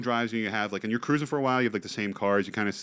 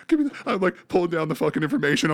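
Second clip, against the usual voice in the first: high, louder mock-panicked scramble; acted panic; 6 semitones higher, 4 dB louder, faster than usual. Driver retells scrambling for his papers, acted high panic. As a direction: imitate frantic fumbling, pitched way up.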